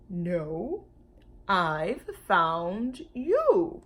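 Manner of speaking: slow, low-ish gentle giant; a lightly voiced big dinosaur; slow lumbering creature reply; mild dinosaur voice. Brontosaurus voiced in story.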